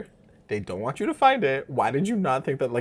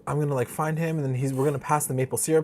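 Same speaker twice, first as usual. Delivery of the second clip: higher-pitched retold planning; raised voice, lightly acted; imitated eager planner; 5 semitones higher than usual. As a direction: act out someone laying out a plan. Acting out a character's plan.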